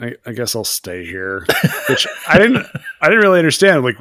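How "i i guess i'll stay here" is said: soft, hesitant, sinking; Christine's reluctant resignation. Retold or imitated. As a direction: give in haltingly, trailing lower. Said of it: "Christine's like".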